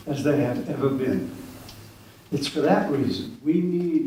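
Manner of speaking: measured, deliberate opening address; formal speech. Acted. Host opening a poetry night for the audience, formal and measured. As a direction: read out prepared remarks with pauses between phrases. Reads prepared opening remarks.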